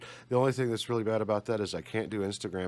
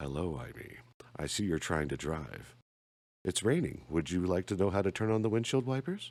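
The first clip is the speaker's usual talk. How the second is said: digital assistant voice; 3 semitones lower than usual. Joking about haunting Amy's car, speaking to her in a Clippy voice. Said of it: "I may be the new voice of Clippy".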